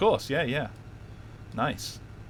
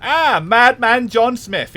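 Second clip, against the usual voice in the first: mock grand announcement; 6 semitones higher, 4 dB louder, much slower than usual.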